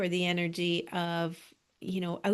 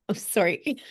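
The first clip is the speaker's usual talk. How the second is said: having a back spasm. Real, not acted. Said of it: "Back spasm here".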